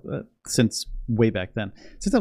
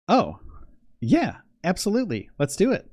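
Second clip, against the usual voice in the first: excited yes; 8 semitones higher than usual. Retold or imitated. Retold acceptance.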